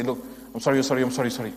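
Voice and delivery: offhand, rattled-off sorry; a child brushing off the blame; careless child apology. Retold or imitated. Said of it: "What kind of sorry is this?".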